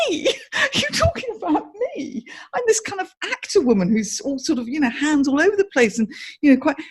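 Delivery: high, laughing, rushed disbelief; half-laughing can't believe it's about me; incredulous laugh, racing along; stunned disbelief. Retold or imitated. Stunned self-quote, laughing.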